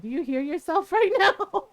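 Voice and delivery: laughing through a mock scolding; laughing at the brother's excuse; laughing disbelief. Real, not acted. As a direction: scold him while cracking up.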